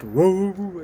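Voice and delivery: mock voice change. Shown as a demonstration. Vlogger showing what his voice doesn't do, mock voice change. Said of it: "my voice will sometimes change. Not like".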